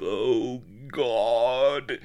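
mock swooning groan, pitched high. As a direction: collapse with a hammy moan. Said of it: "collapsed with a deep groan of".

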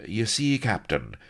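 high-pitched, philosophical explanation. A narrator's reading. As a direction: explain yourself with mild philosophical ease. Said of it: "Blood added philosophically".

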